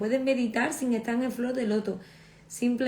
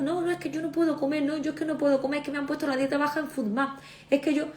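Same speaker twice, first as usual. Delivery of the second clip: higher, whiny list of excuses; mock patient excuses; 5 semitones higher, faster than usual. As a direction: parody a patient insisting she can't eat. Mimicking patients who can't eat. (imitación burlona de paciente, más aguda)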